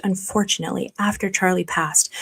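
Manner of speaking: soft, whispered mention of a loss; somber whisper. Real, not acted. Host noting a death to viewers, whispered softly. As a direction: let the words fall to a hush.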